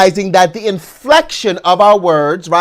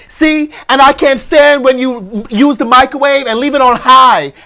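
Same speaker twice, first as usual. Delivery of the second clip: raised, higher-pitched argumentative outburst, imitated; mock losing-the-argument voice, getting louder; Kevin Hart arguing louder; 6 semitones higher, 3 dB louder than usual. Comedian retold losing an argument over the microwave, loud mock indignation. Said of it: "he just starts talking louder".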